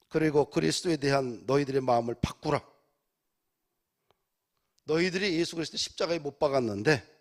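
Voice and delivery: loud preaching in Peter's role; crying out. Retold or imitated. Peter confronting those who crucified Christ, crying out. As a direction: project it firmly to the crowd. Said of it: "그 청중들에게 외칩니다".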